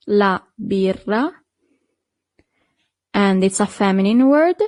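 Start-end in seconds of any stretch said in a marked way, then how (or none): 0.1-1.3 slow repeat. Shown as a demonstration. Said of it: "Then we have the beer".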